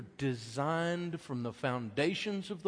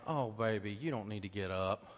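tender dad; 3 semitones lower than usual. Retold or imitated. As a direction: hush a sleepy toddler back to bed. Father soothing small son.

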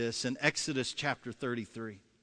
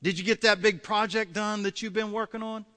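wife; 5 semitones higher, 3 dB louder than usual. Acted. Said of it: "she's so frustrated with this".

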